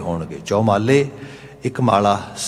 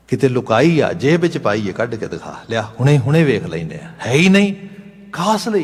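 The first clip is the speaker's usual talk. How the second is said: accusing friend; 3 semitones higher, 4 dB louder than usual. Acted. Friend accuses Saadi of lying.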